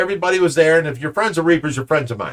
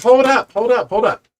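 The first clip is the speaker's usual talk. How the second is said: higher-pitched, insistent cut-in; retold interruption; 5 semitones higher than usual. Father stopping a stranger's rant, acted insistent interruption. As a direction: act out halting someone mid-rant.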